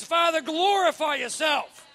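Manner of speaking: loud, high, slow proclamation; impassioned preacher's shout; shouted prayer. Acted. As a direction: cry out to heaven, drawing out the words. Acted prayer at preaching climax.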